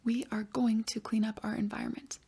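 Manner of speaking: put-on soft whispered child's reply; whispered student answer. Pretend pupil answering the teacher, whispered.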